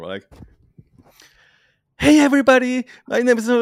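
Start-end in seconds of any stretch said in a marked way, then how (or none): 2.0-3.5 high, loud, over-cheery video intro; fake entertainer. Shy introvert faking an entertainer for a video, mock-peppy and high. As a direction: put on a hammed-up, squealing host greeting. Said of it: "mask of entertainer".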